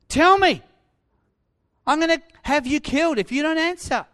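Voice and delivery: high, loud, building angry interrogation; acted furious threats from a ruler; Pilate demanding. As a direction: rage at a silent prisoner, rising to a shout. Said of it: "Pilate demanded".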